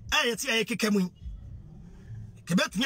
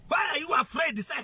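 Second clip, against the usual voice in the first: higher, raised demand; angry shout; 5 semitones higher than usual. Real, not acted. Speaker pressing politicians to speak up, angry shout. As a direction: call them out with a shout.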